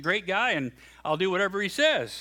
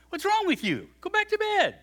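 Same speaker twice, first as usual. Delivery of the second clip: put-on irritated old priest; 4 dB louder than usual. Woken priest snaps at boy.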